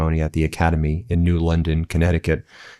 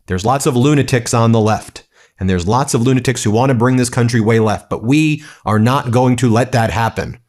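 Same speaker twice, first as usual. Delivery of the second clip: raised, higher-pitched mock rally speech; Donald Trump at a rally; 5 semitones higher, 3 dB louder than usual. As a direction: imitate a politician rousing the crowd. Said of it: "turns this into a political rally".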